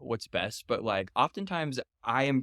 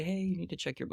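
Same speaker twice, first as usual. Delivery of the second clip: gentle reminder; 8 semitones higher, 4 dB quieter, faster than usual. Shown as a demonstration. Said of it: "it's not like, a".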